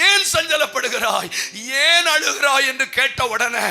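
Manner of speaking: mock outburst. Mock rebuke to husband.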